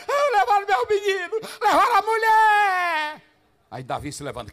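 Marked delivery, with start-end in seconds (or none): 0.1-3.2 high, loud wailing cry. Acted. Tough fighters weeping for wives and sons, loud wail. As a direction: wail for the stolen family. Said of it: "tem um valentão chorando aqui".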